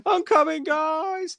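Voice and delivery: high, loud battle cry; heroic shout. Pretend. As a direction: yell it like a hero charging in. Monster bursting in as hero.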